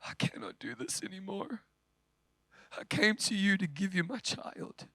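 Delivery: lightly voiced exhausted mother giving up her baby; quiet resigned handover; weary mother. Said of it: "she says".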